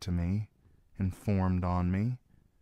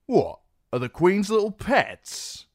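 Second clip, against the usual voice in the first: amused; 13 semitones higher, 7 dB louder than usual. Acted. Ben mocks Reznak.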